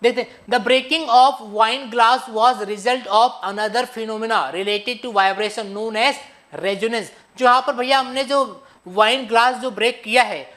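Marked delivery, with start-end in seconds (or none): 0.5-7.1 slow, deliberate English reading; measured reading of the English definition; slow textbook read. Acted. Reads English textbook slowly.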